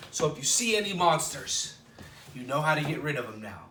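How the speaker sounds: storybook read-aloud with a gentle lilt; reading to children. Acted. Librarian reading a picture book to children, lilting. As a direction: read it like bedtime story time.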